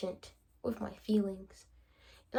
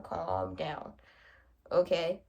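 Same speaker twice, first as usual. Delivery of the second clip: soothing self-calm; 4 semitones lower, slower than usual. Real, not acted. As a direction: talk yourself back down gently.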